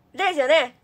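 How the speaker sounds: loud call to the audience. Shown as a demonstration. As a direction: project it to the back row. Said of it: "もっと大きい声で".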